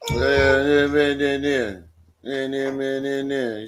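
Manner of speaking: mock baby's fussy whine on one note; mock fussing. Dad mimics his fussing baby girl, mock fussing. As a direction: imitate a fussing baby, chanting monotonously. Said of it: "She over here fussing at me".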